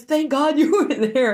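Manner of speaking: husband voiced with a laugh; laughing thanks. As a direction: thank her while laughing. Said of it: "He goes".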